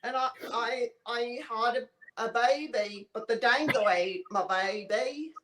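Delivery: hammed-up Australian accent, shouted start; mock Aussie, chicken on the barbie bravado. The speaker introducing herself to viewers in a hammed-up Australian accent. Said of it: "for Australian for beer".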